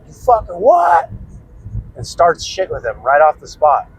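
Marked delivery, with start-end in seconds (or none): 0.1-1.1 high yelling outburst, picking a fight; a drunk uncle snapping at a laughing stranger, high shout; drunken furious shout. Retold or imitated. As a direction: scream it at him, drunk and offended. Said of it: "hops up and he's like".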